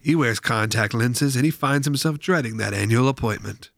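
lightly voiced vintage ad narrator; old-timey announcer. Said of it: "the old-timey announcer".

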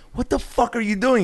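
very high-pitched mock disbelief; imitated high, incredulous rant; incredulous scolding. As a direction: berate a friend in comic outrage. Acting Joel berating the young man.

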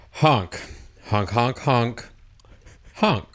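nasal goose honks; goose honking. Acted. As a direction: honk like a goose. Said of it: "get into the, the goose kind of dialect".

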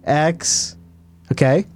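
slow letter-by-letter dictation; spelling it out while writing it down; slow careful spelling. Shown as a demonstration. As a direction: dictate each letter slowly. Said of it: "I'm gonna write this down".

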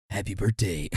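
soft, seductive birthday wish. Acted. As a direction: purr it, playfully seductive. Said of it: "in his most seductive voice".

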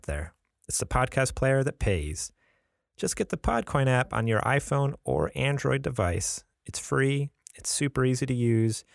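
podcast host reading a sponsor spot. Acted. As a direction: sell the app like a friendly host. Reads a sponsor ad.

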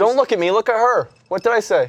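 loud, high put-on Armenian accent. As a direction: act out a pushy Armenian accent. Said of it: "What accent is that?".

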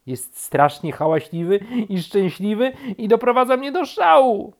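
high, loud, climbing complaint; exasperated rant. A narrator's reading. Rabbit complains to bear, mounting exasperation. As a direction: build to an outraged peak. Rabbit rants about noisy woodpecker.

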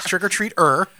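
"Trick or treat er" with a detached, hard-R "er" at the end. Shown as a demonstration. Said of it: "Yeah, hard R".

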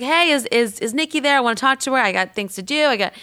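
badly imitated accent of a brisk caller; rough accent impression, starting high and insistent; Patty Stanger. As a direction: rattle off demands in her put-on accent. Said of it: "I'm not doing her accent well".

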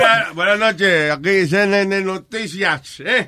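mock news anchor. Parodies CNN news anchor.

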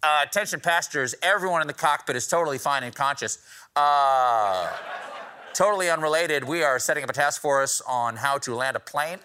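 cabin PA voice, calm and reassuring; flight attendant announcement. Pretend. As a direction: play an airline intercom announcement. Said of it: "your flight attendant saying".

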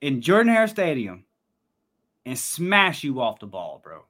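a hint of a country boy voice; old country boy Southerner. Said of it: "I'm gonna sound like an old country boy Southerner real quick".

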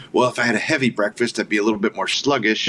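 lightly voiced impression of a laid-back actor; a hint of his voice, only slightly put on; Gary Sinise. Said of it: "That's a pretty good Gary Sinise".

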